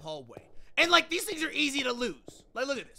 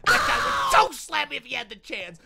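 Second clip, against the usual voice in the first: louder hyped claim; 9 dB louder than usual. Real, not acted. Hyping up a hater.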